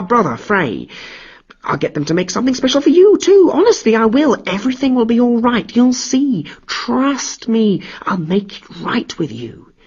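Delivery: smooth-talk the furious god down; cajoling. Acted. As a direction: trickster sweet-talking Thor to save his skin. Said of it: "cajole and try to appease".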